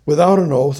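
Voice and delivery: "Without an oath" said firmly, leaning on "Without"; emphatic. Real, not acted. Preacher correcting himself to the congregation, emphatic. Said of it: "I'm saying it emphatically".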